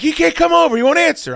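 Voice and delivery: high wife voice. Retold or imitated. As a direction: mimic the worried wife.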